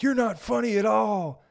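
a bully's mocking jeer, high and loud. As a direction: sneer it like a bratty kid. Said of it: "And they're like".

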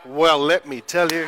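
mock bold let-me-tell-you; bold attitude. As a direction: announce it with new confidence. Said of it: "totally different attitude".

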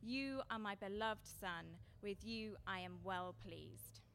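slow, deliberate words of blessing; unhurried declaration of a father's love; slow voice from heaven. Retold or imitated. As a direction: lay each word down slowly as God's voice. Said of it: "and a voice came from heaven".

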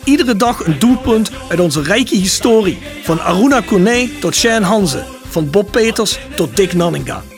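slow, upbeat sponsor announcement; ad read. Acted. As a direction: read it like a radio ad. Sponsor ad read over music.

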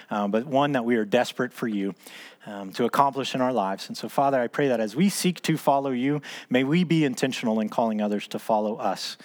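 earnest spoken prayer, close to the group's own talk; small group leader praying to close the meeting, earnest and unhurried; closing prayer. Real, not acted.

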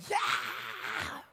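a whispered, mocking church shout; hushed fake hallelujah cry. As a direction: imitate an empty churchgoer's yell. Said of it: "come to church and say".

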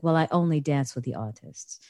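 understated snub with a hint of British accent; snobbish British put-on. In disguise, turning down a friend's dance, mildly snobbish. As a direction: lightly dismiss him as beneath you. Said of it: "very snobbish to him".

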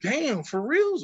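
high, slow drawn-out disbelief; amazed surprise. Retold or imitated. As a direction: stretch it out in amazement. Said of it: "And other Samoans".

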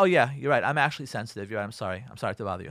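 sarcastic surrender fading to a small sorry; mock meek apology. Wife pretending to back down to husband, mock meek. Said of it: "Of course she's not gonna say that".

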